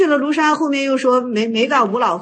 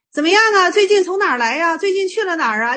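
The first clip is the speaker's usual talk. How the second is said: higher-pitched, chatty greeting questions; casual inquiry; 6 semitones higher than usual. Acted. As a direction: ask like greeting an acquaintance, voice lifted. Acts out everyday greeting questions.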